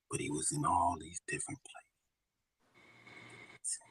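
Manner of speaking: hushed whisper. Real, not acted. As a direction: whisper it quietly. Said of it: "you don't need to whisper".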